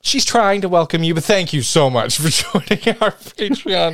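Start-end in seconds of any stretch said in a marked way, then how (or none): 1.2-3.9 breaking into a laugh mid-thanks; amused, giggling sincerity. Real, not acted. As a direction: try to say thanks, then crack up. Laughing at co-host's botched welcome.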